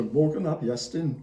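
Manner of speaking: Welsh pronunciation of Morgan ap Iestyn; Welsh accent. Shown as a demonstration. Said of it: "Excuse my Welsh accent".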